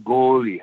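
"Goalie" stretched on the first vowel; lingering O in "Goalie"; drawn-out nickname. Retold or imitated. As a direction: imitate the boss greeting with a long "Goooalie". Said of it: "he said like that".

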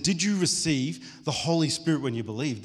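eagerly voiced retold question; excited question. Paul asking new disciples about the Spirit, mildly excited. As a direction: ask it with keen, mild excitement. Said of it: "The guy is excited".

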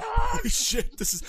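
high thrilled shout; excited shout. Retold or imitated. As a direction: blurt it out like a fan. Excited trailer reaction.

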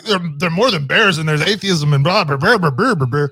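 lightly mocking a friend's rambling; hint of a teasing impression; Cliff. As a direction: imitate a friend blathering on, sing-song blahs. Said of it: "that was you".

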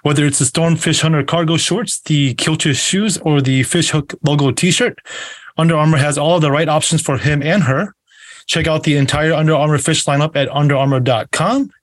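measured host ad read; sponsor read. Acted. Host to viewers plugging a fishing apparel sponsor, ad read. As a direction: read out a sponsor plug, evenly paced.

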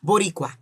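Boricua said the Spanish way, with a tapped r; careful Spanish Boricua, bo-ri-KWA; Spanish pronunciation. Shown as a demonstration. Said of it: "I got my little Spanish".

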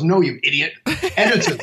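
laughing. Retold or imitated. Friend's retold punchline.

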